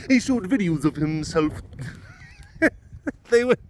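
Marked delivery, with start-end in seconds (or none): 0.1-1.6 over-enunciated journalist impression; Phil Williams. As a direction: mimic a reporter's odd, careful enunciation. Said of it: "he would over-enunciate".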